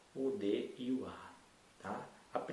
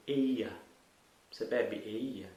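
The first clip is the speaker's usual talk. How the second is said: mock mispronunciation; 3 semitones lower, 3 dB louder, much slower than usual. Shown as a demonstration. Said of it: "como é que a gente ia ler".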